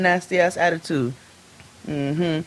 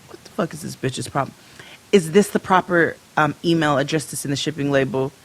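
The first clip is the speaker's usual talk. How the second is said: curt; 3 semitones lower than usual. Retold or imitated. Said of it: "Real, just real, like, curt all of a sudden".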